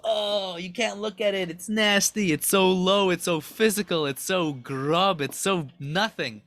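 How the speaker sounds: acted revulsion in a run of short outbursts; imitating appalled onlookers; mock disgust. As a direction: recoil from something nasty, mildly hammed-up. Angels acted recoiling in disgust.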